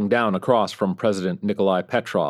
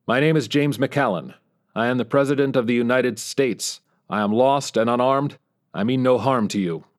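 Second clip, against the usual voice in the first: raised voice calling into the dark; 4 semitones higher than usual. Acted. Lost president calling into the cave, raised voice. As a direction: call out firmly into the cave. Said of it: "called out".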